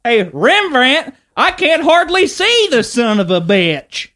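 put-on high, slow, loud hick accent; hammed-up Southern redneck accent; redneck comic voice. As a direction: drawl it at the crowd. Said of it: "stand-up scene like that".

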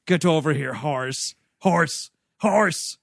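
lightly acted summons to an animal; a touch of put-on accent; mock calling out. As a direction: call a horse in short bursts. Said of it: "he is calling this horse horse".

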